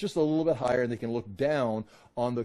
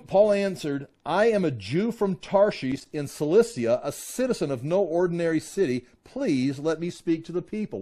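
measured, emphatic public reading; emphatic scripture reading; 4 semitones higher, 3 dB louder than usual. A narrator's reading. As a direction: read scripture out to the room, raised voice.

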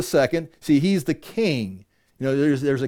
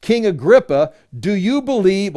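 scripture reading; 5 semitones higher, 5 dB louder than usual. Acted. Reads Paul's challenge aloud.

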